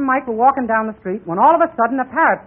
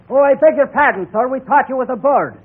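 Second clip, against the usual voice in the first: Irish character voice; 5 dB louder than usual. Acted. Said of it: "And Pat tipped his hat and said".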